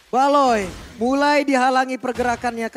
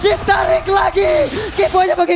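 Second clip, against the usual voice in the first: fighting game announcer; 4 semitones higher than usual. Real, not acted. Caster calling the pull.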